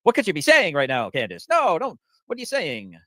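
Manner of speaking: high loud mock Yiddish accent; hammy shocked oy vey voice. Mocking Candace in stereotype voice.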